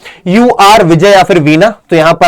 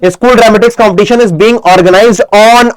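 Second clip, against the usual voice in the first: very slow dictation, stretching each word; 2 semitones higher, much slower than usual. Shown as a demonstration. Teacher dictating the notice sentence to students, very slow. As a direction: spell the sentence out for note-taking. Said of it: "on लगा करके date लिखनी है".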